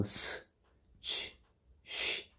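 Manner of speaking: "스, 취, 쉬" as soft, separate hisses; isolated ending sounds. Shown as a demonstration. Teacher listing verb endings, "스, 취, 쉬" sounded out one by one. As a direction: sound out "스", "취", "쉬" softly with pauses. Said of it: "이 s는 언제 붙이느냐".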